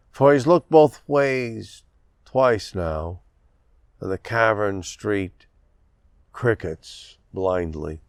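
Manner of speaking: measured poem reading with deliberate line breaks; poetry reading. A narrator's reading. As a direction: read it as verse, pausing after each phrase. Reads own poem to audience.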